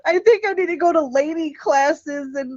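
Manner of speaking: high, prissy proper-lady voice. Retold or imitated. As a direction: play the dainty lady. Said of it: "I was like".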